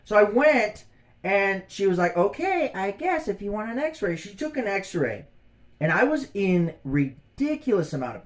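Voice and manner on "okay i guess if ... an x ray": high, grudging imitation of the doctor; mock reluctant doctor. Patient imitating doctor agreeing to x-ray, high and grudging. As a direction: mimic a doctor giving in grudgingly.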